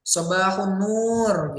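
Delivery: "Sobahun nur" drawn out with a falling nur; jawaban murid. Shown as a demonstration. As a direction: answer as a class, stretching "Sobahun nur" slowly. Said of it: "Terus kami jawab gitu kan". (murid menjawab, "Sobahun nur" dipanjangkan)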